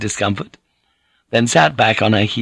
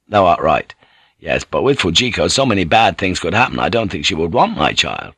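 lightly voiced man, pitched lower; a hint of a doubtful seaman; English sailor lover; 4 semitones lower than usual. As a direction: reason with your lover in a lower voice. Voices Blackthorn in the dialogue.

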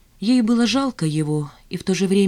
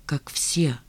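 soft, dropping, near-whispered; hushed bitter echo; almost whispered; 2 semitones lower, 5 dB quieter than usual. A narrator's reading. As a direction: breathe it out softly. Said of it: "почти прошептал".

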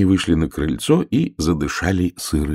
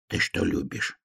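soft, hushed aside; quietly; 9 dB quieter than usual. Acted. Hare privately asks the frog its favourite food, quietly. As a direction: ask it under the breath. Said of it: "тихо спросил заяц".

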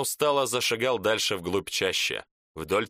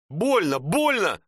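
high, louder pleading, rising on the second; begging in pain; 7 semitones higher, 4 dB louder than usual. Acted. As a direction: beg for mercy, hurting. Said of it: "взмолился второй".

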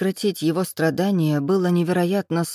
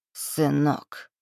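hissed; 2 semitones lower, 3 dB quieter than usual. A narrator's reading. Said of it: "Последнее слово он прошипел".

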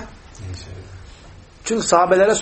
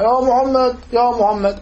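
mild mock call, starting high; imitated shouting; 5 semitones higher, slower than usual. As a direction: imitate a Bedouin calling the name, restrained. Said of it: "bu adam bağırıyor Aleyhisselatü Vesselam'a".

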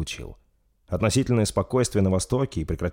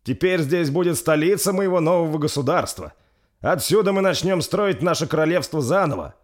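high, loud royal address; solemn king; 10 semitones higher, 3 dB louder than usual. Acted. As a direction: address the people grandly. Rolf continues his proclamation.

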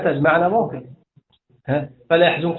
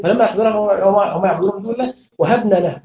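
raised recitation running up to a stop on له; pause after له; 4 semitones higher than usual. Shown as a demonstration. Teacher demonstrating the pause, verse halted on له. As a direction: carry the verse along, then halt after وهبنا له. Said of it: "وقف".

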